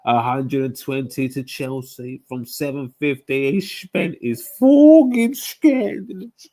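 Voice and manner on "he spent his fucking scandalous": high, slow whispered outrage; outraged whisper. Real, not acted. Fan whispering outrage at a club's spending, high and slow. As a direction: hiss the scandal under your breath.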